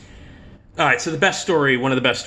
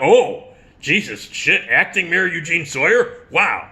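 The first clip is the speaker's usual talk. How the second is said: mock disbelief; 6 semitones higher, 4 dB louder than usual. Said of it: "And we're like".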